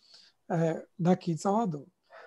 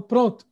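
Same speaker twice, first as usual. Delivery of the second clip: pronto firme e alto; 4 semitones higher, 5 dB louder than usual. Shown as a demonstration. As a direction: diga pronto como concordância. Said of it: "Aí eu falo". (pronto de concordância, mais forte)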